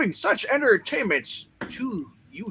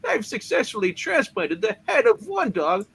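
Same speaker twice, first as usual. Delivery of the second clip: triumphant; 3 semitones higher, 4 dB louder than usual. Acted. Triumphant experiment.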